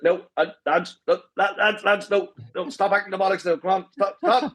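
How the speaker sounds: a hint of a flustered man begging lads to stop; mock-plead to be put down, half laughing; protesting pleas. Man carried in a king's chair begging the lads to stop, lightly voiced.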